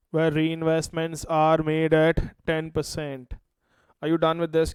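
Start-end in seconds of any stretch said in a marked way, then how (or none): 0.1-3.3 slowly repeated for note-taking; slow dictation. Shown as a demonstration. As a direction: say it slowly, word by word.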